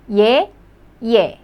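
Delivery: "예" and "예" both as the same yeh sound; identical vowels. Shown as a demonstration. Teacher showing two spellings sound the same, identical vowels. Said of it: "they pronounce the same".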